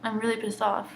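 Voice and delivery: heavy sigh, then slow, weary admission; really upset. Real, not acted. Student speaking out about assault, really upset. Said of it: "I'm just really upset".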